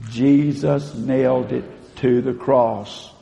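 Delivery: slow, measured unison line; call-and-response affirmation. Shown as a demonstration. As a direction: lead the room through it slowly. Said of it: "Say it with me".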